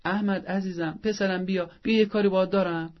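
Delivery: sweetly calling the son over, light and friendly; tender call. Shown as a demonstration. Mother luring her son from the fight: sweet, tender call. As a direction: coax him away with affection. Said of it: "نه،".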